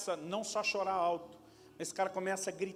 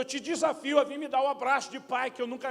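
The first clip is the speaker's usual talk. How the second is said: pleading challenge; 6 semitones higher, 4 dB louder than usual. Retold or imitated. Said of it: "Ele falou".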